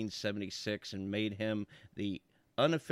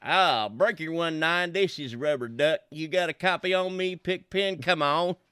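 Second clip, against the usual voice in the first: CB trucker voice; 5 semitones higher, 4 dB louder than usual. Shown as a demonstration. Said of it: "Maybe I need some more bass".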